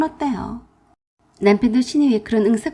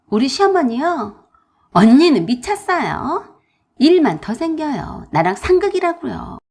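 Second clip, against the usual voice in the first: sister-in-law's voice, a bit higher and complaining; fretful sister-in-law; 6 semitones higher, 5 dB louder than usual. Acted. Sister-in-law complains to narrator, fretful and higher. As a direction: whine that you're stuck.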